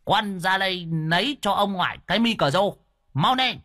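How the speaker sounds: high-pitched summons; calling a grandchild. A narrator's reading. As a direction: holler for your grandson to fetch it. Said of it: "Đoạn lão gọi thằng cu cháu ngoại".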